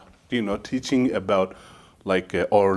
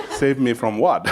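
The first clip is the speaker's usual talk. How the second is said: laughing. Real, not acted. Retort told while laughing.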